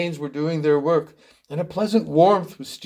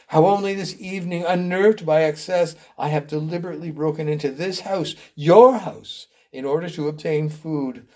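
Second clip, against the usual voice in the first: melodramatic, raised confession; anguished penitent; 2 semitones higher than usual. Acted. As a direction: pour out the guilt in a building litany. Acts Robert's anguished confession.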